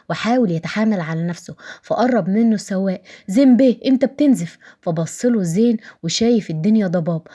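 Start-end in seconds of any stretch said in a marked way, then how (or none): 3.3-4.6 higher, louder alarmed call; driver's alarmed shout. A narrator's reading. Driver warning his bleeding boss, restrained alarmed shout. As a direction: call out in alarm, moderately loud. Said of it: "لما سمعت صراخ السواق".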